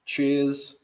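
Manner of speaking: swallowing vodka mid-sentence; audible gulp by the mic; gulping a drink. Real, not acted. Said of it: "Sorry if you can hear me gulping into the mic".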